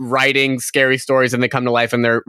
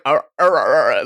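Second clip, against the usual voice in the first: imitated mouth noises; 3 semitones lower than usual. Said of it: "sounded like he was moving like".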